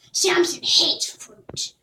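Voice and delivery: put-on slow, matter-of-fact old woman; a slow dry shrug; gypsy woman. Gypsy woman to Jack, slow and dry.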